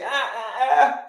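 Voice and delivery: caught-out nervous laugh, rising high at the end; sheepish laugh. Retold or imitated. Client caught out about sleep, awkward nervous laugh. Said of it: "That's when they'll say".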